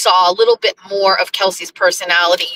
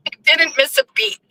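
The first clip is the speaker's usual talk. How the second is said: higher, laughing through the words; 8 semitones higher, faster than usual. Real, not acted. Telling viewers about a quick comeback, laughing. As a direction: say it through a giggle. Amused at her retold exchange.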